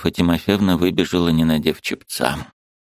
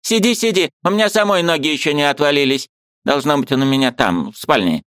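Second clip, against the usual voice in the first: put-on high, fussy old woman; a bustling old aunt, pitched high; old aunt's voice; 8 semitones higher than usual. A narrator's reading. Old aunt shooing the niece, high fussy voice.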